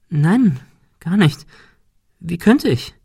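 hohe, höhnische Stimme eines Bockwesens; spöttische Kreaturenstimme. A narrator's reading. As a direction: neckend und überlegen, viel höher. Monika stellt sich unschuldig. (Monika als Bock verspottet den Detektiv, hoch und höhnisch)

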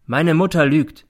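slow, deliberate. A narrator's reading. Accused son answering the judge, slowly. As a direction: state it slowly and firmly. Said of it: "sagt er langsam".

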